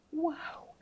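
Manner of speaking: high, wide-eyed wow; mock amazement. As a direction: gush at it like it's magic. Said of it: "I'm like".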